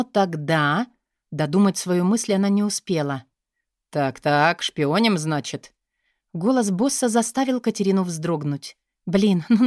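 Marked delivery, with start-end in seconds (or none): 3.9-5.7 low, knowing male voice, dry; boss catching a spy. Acted. Boss catching his secretary snooping, low and knowing. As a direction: catch her red-handed, unhurried.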